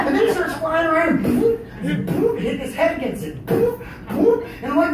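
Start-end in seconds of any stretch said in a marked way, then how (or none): 1.2-4.4 high, loud cartoon bonks; imitated bee bumps. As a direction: boop like a bee hitting a can. Imitating bee bumping the can.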